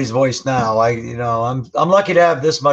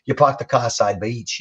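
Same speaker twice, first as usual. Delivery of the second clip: light Rhode Island accent, r-less park the car; 4 dB quieter than usual. Shown as a demonstration. The speaker shows how they talk back home, Rhode Island accent. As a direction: drop the r's the Rhode Island way. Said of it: "so we talk like".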